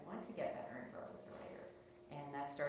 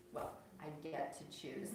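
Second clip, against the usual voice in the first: slow, knowing "get" with a rise; knowing irony; slower than usual. Shown as a demonstration. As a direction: tease that the choice is arranged. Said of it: "But it may be a little bit, um, arranged".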